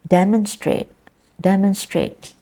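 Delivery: "demonstrate" as DEM-on-strate; stress first syllable. Shown as a demonstration. Teacher asks class where is the stress, stress first syllable. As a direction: hit DEM at the front of "demonstrate". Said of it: "is in the first syllable".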